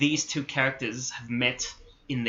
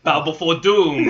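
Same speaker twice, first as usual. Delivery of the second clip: dark lord; 3 semitones higher, 8 dB louder, slower than usual. Retold or imitated. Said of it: "Fucking Doctor Doom".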